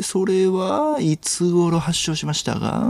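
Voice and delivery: slow, mannered detective questioning; 粗品任三郎. Acted. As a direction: interrogate with stretched fillers and hums. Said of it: "粗品任三郎さん。". (刑事のものまねで、ねちっこく尋問)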